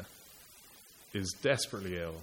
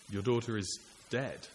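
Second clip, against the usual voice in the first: heavy repeat; 4 dB quieter than usual. Shown as a demonstration. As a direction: let the words land like final news. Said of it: "the tense of the verb rubs salt into the wound".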